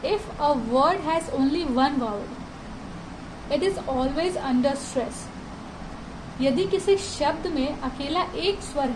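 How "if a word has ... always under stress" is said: reading each word very slowly and deliberately; slow textbook reading. Shown as a demonstration. Teacher reads the lesson text aloud to students, very slow. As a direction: read it out word by word for the class.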